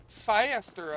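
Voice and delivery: loud, high barked order; mock command. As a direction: bark the order to hurry up. Bossing a game worker around.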